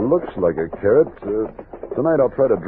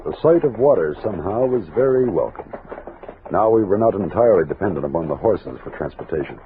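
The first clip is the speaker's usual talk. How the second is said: story narration; 2 semitones lower than usual. A narrator's reading. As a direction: tell it like a frontier memoir. Narrator describes reaching the river.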